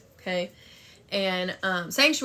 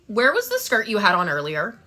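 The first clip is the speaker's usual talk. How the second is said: nosy churchwoman; 2 semitones higher, 7 dB louder than usual. Retold or imitated. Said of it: "she goes".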